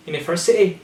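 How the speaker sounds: "university" as "universi'ee"; glottal T. Shown as a demonstration. Teacher repeating the example, "university" with a glottal stop. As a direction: swallow the T in "university". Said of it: "glottal T".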